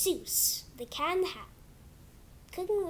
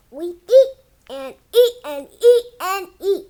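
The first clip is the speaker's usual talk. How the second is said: laughing, louder through the words; 10 dB louder than usual. Real, not acted. Kid reader cracking up reading louder while reading eat and eat. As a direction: giggle through the eating line.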